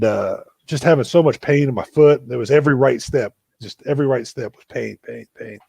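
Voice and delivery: ordinary talk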